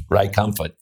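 name said in a German accent. Shown as a demonstration. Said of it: "I'll do your name in German".

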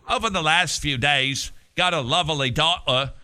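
hammy British reading of an official statement. Acted. Host reading a Liverpool group's statement as a singer, mock British accent. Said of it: "I'm that singer".

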